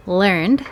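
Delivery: "learned" ending in a voiced d. Shown as a demonstration. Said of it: "There is the D sound".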